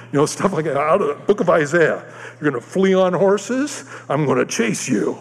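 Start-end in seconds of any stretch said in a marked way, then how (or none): 2.4-5.2 raised voice, slow mock threat, dropping at the end; God's warning. God warning the preacher from Isaiah, raised mock threat. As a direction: pronounce it like a drawn-out curse. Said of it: "he gave me curses in the Bible".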